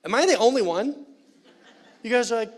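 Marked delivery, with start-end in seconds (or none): 0.0-1.0 louder, higher call to the crowd; loud appeal. Real, not acted. Preacher calling out to the congregation, loud. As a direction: throw the question out to the room.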